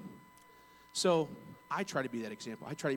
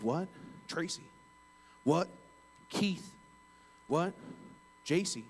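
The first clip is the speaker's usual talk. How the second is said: puzzled guesses, pitched up at the end; baffled questioning; 5 semitones higher, slower than usual. Retold or imitated. Caller mishearing an agent's name over the phone, baffled. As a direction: imitate a caller who can't catch the name, each guess rising sharply.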